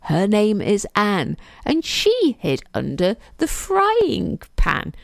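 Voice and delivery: measured rhyme recitation; reciting a nursery rhyme by heart; nursery rhyme recital. Acted. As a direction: recite it like a familiar children's rhyme.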